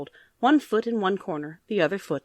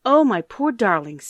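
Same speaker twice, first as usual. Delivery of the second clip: pitying grandmother; 3 semitones higher, 6 dB louder than usual. Acted. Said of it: "pitying the children".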